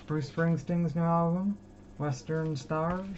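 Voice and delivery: a light put-on American accent, slowing down; mock American accent. Naming a rock singer's record in a playful American accent. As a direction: drawl the title in a bad American accent. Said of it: "when I do my American accent".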